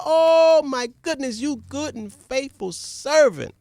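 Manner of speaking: high, slow joyful praise; overjoyed king. Acted. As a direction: pour praise on the servant. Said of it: "The king was so happy".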